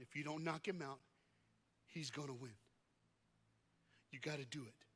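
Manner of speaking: soft, grave words with long pauses; quiet warning. Retold or imitated. Manager leans down to warn fighter.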